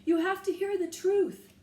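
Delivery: loud, high pleading shout; loud yell. A narrator's reading. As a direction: make the crew hear you. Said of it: "Jack yelled in his loudest voice".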